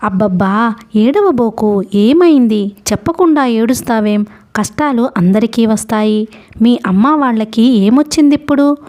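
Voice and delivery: lightly voiced old ferryman, concerned; startled ferryman. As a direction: rouse yourself and question the crying boy. Ferryman comforts crying boy.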